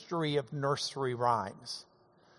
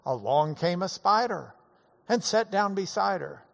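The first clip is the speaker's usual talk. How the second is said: Dad's silly version. Retold or imitated. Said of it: "If Dad told them to us, they would be more along the lines of".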